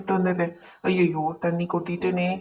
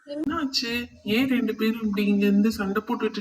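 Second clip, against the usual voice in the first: what happened; 3 semitones higher, 4 dB quieter than usual. Acted. Brother finds kids fighting.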